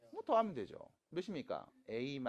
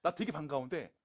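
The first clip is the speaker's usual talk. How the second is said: loud, higher, hurried fluster; flustered teacher; 6 semitones higher, 11 dB louder than usual. Retold or imitated. Teacher retells his flustered reaction to students. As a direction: act caught off guard and embarrassed. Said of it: "막 이런 애들 있다고".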